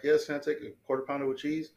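a hint of a little girl's voice; man doing a woman's voice. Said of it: "I sounded like a little girl".

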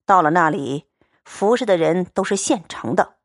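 steady, cool young swordsman, lightly voiced; calm and blunt, a man of few words; Liu Xianglian's voice. Xianglian calmly tells Baoyu the money is set aside, steady and cool. Xianglian lures Xue Pan quietly.

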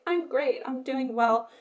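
mock upbeat front; false positivity. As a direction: pretend lightly that all is well. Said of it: "put on this false pretense of, like".

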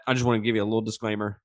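blocked nose from a sinus infection; pinching nose. Real, not acted. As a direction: talk like your nose is pinched shut. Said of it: "I am dealing with a little bit of a sinus infection, so if I sound like I'm fucking pinching my nose".

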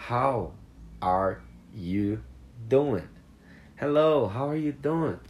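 high, loud, friendly hello; friendly greeting. Shown as a demonstration. Teacher acts out a common friendly greeting. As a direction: call out a cheery hello. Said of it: "Isso é muito comum".

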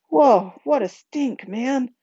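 high, loud-starting recoil; grossed-out exclamation. A narrator's reading. Rodney reacts to the stink of vomit, grossed out. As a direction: burst out on whoa, pitch swooping high.

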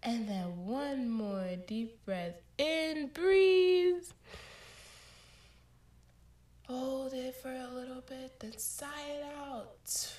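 slow, calm breathing instructions; guided breathing. Acted. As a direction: ease them through each breath. Leads breathing exercise.

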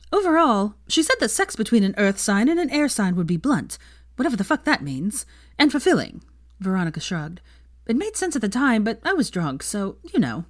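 excited gossip. Acted.

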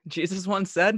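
breaking into laughter mid-line; laughing. Real, not acted. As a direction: laugh through the words. Repeats line cracking up.

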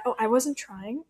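mocking excuse. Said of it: "people's worst excuse".

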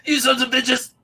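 high, loud mock outrage at a sad story; jokingly cursing the kids for the tears. Friend mock-cursing the kids, high and loud.

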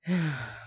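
long audible exhale; weary sigh. A narrator's reading. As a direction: let out a heavy breath. Narrator sighs after retelling the yelling.

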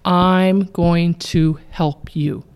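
slow, steady reassurance; unhurried calm helper voice. Shown as a demonstration. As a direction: say it gently and slowly, like a promise of help. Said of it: "The words have to be".

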